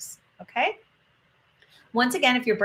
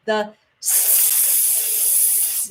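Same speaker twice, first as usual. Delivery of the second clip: hard, forceful s hiss; hurricane-style hiss; 5 dB quieter than usual. Shown as a demonstration. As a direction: push the air out in a powerful hiss. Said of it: "I call it hurricane style".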